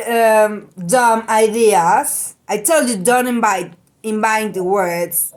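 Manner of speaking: hammed-up mean-girl rebuke; mock Regina scolding. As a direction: put her down like a mean queen bee. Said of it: "Regina say".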